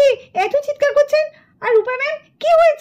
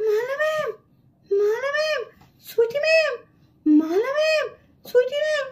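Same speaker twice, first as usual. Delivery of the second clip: weak, softer frightened calls for the teachers; voice gone from fright; 5 dB quieter than usual. Acted. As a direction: try to call out but the voice won't come. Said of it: "ভূত দেখে তো আমার গলার আওয়াজই বন্ধ হয়ে গেল". (ভয়ে গলা বুজে আসা দুর্বল ডাক)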